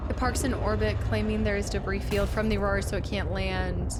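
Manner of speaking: news reporter read. Acted. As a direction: report it like a journalist. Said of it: "I've gotta give it my, like, reporter voice".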